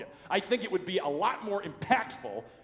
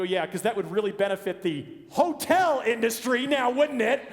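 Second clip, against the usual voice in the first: sarcastic; 5 semitones higher, 8 dB louder than usual. Retold or imitated. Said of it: "I go".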